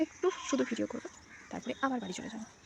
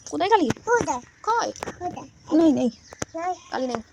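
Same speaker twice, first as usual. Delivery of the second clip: loud, high mock-indignant questions; mock alarm; 5 semitones higher, 6 dB louder than usual. Real, not acted. Mother playfully shocked at her son's threats.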